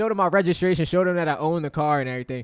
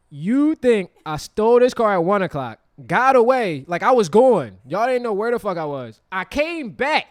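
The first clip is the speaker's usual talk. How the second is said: louder, higher mock confrontation with the cop; retold argument, pitched up and louder; heated retort; 6 semitones higher, 9 dB louder than usual. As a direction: push back at the officer, voice raised. Retelling arguing with the officer.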